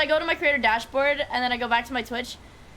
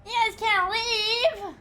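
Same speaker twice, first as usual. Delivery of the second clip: excited call; 10 semitones higher, slower than usual. Real, not acted. Pleading with leaving companions.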